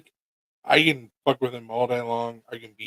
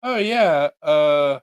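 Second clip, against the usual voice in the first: cat voice; 6 semitones higher, slower than usual. Retold or imitated. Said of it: "And you're like".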